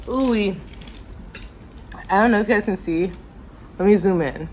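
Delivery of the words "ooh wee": reacting to spicy food; a hot, breathy ooh-wee; spicy gasp. Real, not acted. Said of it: "that's from how spicy this pasta".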